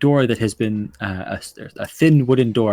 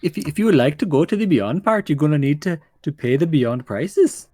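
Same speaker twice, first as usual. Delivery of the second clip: singsong, higher-pitched gnome salesman; hesitant gnome quoting terms; lilting little gnome voice; small gnome; 3 semitones higher than usual. Acted. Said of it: "you see a small gnome".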